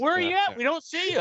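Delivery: high-pitched impatient mom; mom on the phone. Retold or imitated. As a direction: imitate mom nagging in a high voice. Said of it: "Mom's like".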